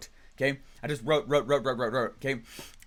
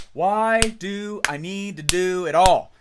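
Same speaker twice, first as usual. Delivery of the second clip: exasperated; 3 semitones higher, 8 dB louder, much slower than usual. Retold or imitated. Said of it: "And I was like".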